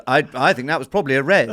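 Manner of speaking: chuckling while joking; laughing. Real, not acted. Joking about the referee's advice.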